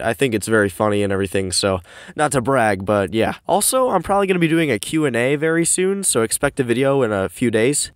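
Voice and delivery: recorded in a cramped closet; boxy, echoey room sound; echoey closet recording. Real, not acted. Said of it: "sorry if it's a little bit echoey".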